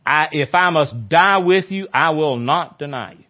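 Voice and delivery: a mild mock outburst of loyalty; vehement vow. Peter vowing to Jesus he will never deny him, mildly vehement. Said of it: "But he vehemently said".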